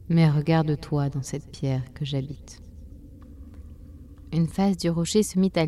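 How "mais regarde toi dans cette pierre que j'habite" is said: voix du temps, plus basse et lente; un vieux temps calme qui parle doucement; le temps, voix douce et grave. Acted. (le temps parle à la chenille, voix grave et posée)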